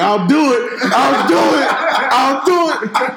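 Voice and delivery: high-pitched mock Middle Eastern accent. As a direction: imitate a crazed threat in a Middle Eastern accent. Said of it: "he got this crazy Middle Eastern accent".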